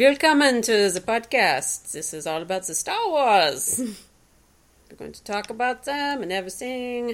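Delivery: slow, deliberate, put-on German accent. A speaker improvises a podcast welcome in a German accent. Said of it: "I'm doing this German accent".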